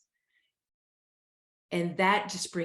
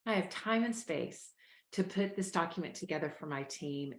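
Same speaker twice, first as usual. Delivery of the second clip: relaxed, easy voice. Shown as a demonstration. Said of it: "But what if it was".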